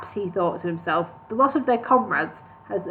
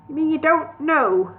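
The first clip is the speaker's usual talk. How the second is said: disgusted; 6 semitones higher than usual. A narrator's reading. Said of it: "asked Maury in disgust".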